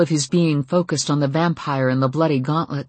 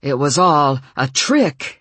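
slow disbelieving voice; incredulous; 5 dB louder than usual. Acted. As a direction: say it as if unable to believe. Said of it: "his voice incredulous".

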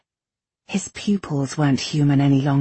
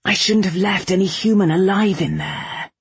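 higher, forceful outburst; raised, vehement menace; protective anger; 4 semitones higher, 4 dB louder than usual. A narrator's reading. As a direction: burst out with fierce regret. Kai's protective anger after breaking in.

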